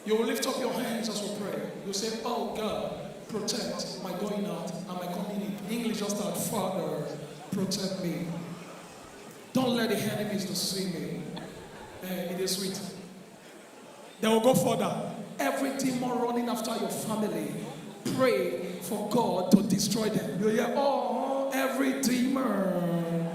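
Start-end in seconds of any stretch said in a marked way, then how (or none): 0.0-11.2 soft, low, gentle Ajebo praying; hushed, low-pitched posh-church prayer; Ajebo prayer leader. Acted. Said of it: "na Ajebo way now". 15.4-23.3 soft, slow Ajebo prayer against demons; mild, drawn-out mock prayer. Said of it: "na Ajebo way now".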